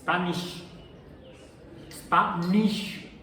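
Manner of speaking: "Spanish" the English way, with an sh sound; a light English accent on "Spanish"; English pronunciation. Shown as a demonstration. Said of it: "Cómo dicen los, eh, angloparlantes".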